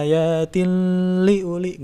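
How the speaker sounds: ayatil li uli said the wrong way; mock-wrong recitation; wrong take. Shown as a demonstration. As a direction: incorrect recitation. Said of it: "enggak seperti itu".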